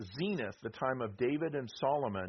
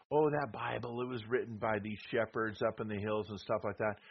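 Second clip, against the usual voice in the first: lightly voiced scoffing skeptic; a hint of a dismissive doubter; mock skeptic; 3 semitones lower than usual. Preacher mimics skeptics who scoff at the Bible, lightly mocking. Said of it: "the skeptics like to say".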